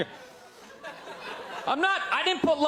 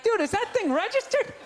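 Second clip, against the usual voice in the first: nervous white friend; 8 semitones higher than usual. Retold or imitated. White friend voiced for rapper.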